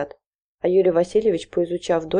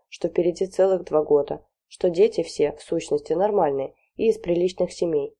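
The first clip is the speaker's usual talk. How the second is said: ordinary delivery, nothing marked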